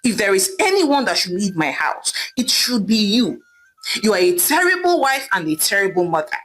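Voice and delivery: mildly heated husband, steady pace; angry outburst. Acted. Husband turning on his wife, mild anger. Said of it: "Ame screamed angrily at his wife".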